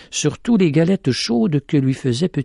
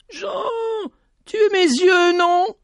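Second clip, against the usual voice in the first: calling out; slower than usual. A narrator's reading. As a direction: cry out to reach him. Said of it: "elle lui cria".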